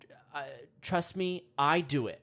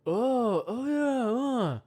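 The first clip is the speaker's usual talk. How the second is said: loud, higher ape grunts; confident monkey; 7 semitones higher, 5 dB louder, much slower than usual. Retold or imitated. Confident first monkey grunting out loud. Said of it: "And he went".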